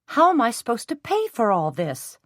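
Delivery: high, loud distressed cry; cried out. A narrator's reading. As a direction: cry out in protest. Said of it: "she cried".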